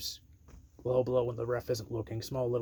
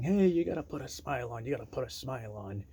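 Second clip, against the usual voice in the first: mocking; 2 semitones higher, 3 dB louder than usual. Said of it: "openly mocks Woods, saying".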